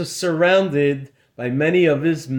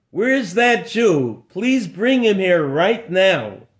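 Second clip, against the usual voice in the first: higher, eager urgent demand; lightly voiced excited lord; 3 semitones higher than usual. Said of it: "Most excited of all".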